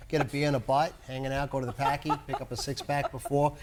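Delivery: low, offhand Boston local; Boston accent. Shown as a demonstration. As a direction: chat like a Bostonian, dropping Rs. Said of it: "doing a Boston accent".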